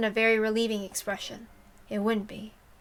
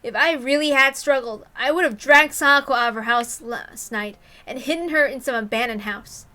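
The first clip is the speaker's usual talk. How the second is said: faster, louder, rising frustration; frustrated outburst; 5 dB louder than usual. Acted. Keiichi blaming himself to Rena, rising frustration. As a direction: berate yourself, getting heated. Keiichi's self-reproach building up.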